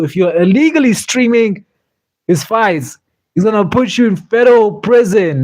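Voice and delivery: lightly voiced stern boss warning; half-hearted Uncle Dana warning; a hint of Uncle Dana. These are his words.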